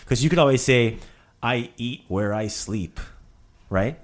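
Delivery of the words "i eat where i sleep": "I eat where I sleep" slow and level, no rise on "where"; statement, not question. Shown as a demonstration. Teacher giving a counterexample, "where" unlifted in a slow statement. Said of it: "But it's not a question".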